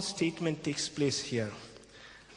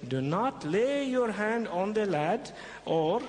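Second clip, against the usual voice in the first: angel of the Lord. Acted. Preacher voices the angel.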